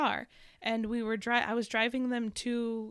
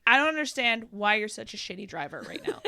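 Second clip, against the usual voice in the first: mock-exasperated complaint, louder, laugh creeping in; retold road rage; 5 dB louder than usual. Driver griping at another car, mock exasperation. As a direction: berate a bad driver, amused at yourself. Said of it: "I just let it out".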